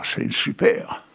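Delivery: high, drawn-out "c'est super" as a catchphrase; mock enthusiastic. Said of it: "une expression de dire".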